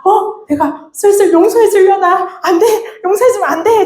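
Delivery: 높게 웃음 섞어 외치는 장난스러운 거부; 웃으며 자기 자신을 말리듯; 웃으며 스스로 말리기. Retold or imitated. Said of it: "제가 막 이러고 있었거든요". (웃음 섞인 장난스러운 외침)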